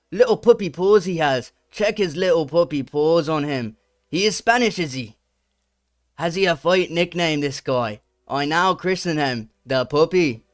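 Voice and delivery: lightly put-on British accent; a hint of British accent reading aloud. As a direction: read the tweet in a mild British accent. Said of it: "a British accent".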